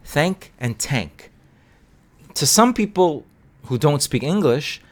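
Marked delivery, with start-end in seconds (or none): 0.1-1.3 slow "Thank" with th, then "tank" with t; slow contrast of th and t; minimal pair contrast. Shown as a demonstration. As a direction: set "Thank" against "tank", unhurried. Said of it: "let's use a minimal pair".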